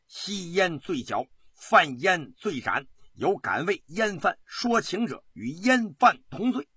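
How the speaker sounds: solemn decree, gathering force; stern official proclamation. Acted. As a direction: lay down the law to the assembled officials. Official's solemn decree, building to vow.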